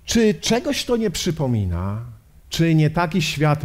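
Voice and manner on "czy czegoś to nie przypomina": ordinary talk, nothing marked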